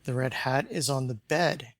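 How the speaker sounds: bed stressed, sentence falling onto it; The red hat is on the bed, with bed marked. Shown as a demonstration. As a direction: land the weight on bed. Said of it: "specifying which piece of furniture".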